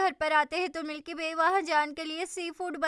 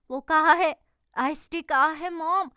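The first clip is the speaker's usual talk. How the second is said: urgent; 5 dB louder than usual. Acted. Urgent question about missing tea.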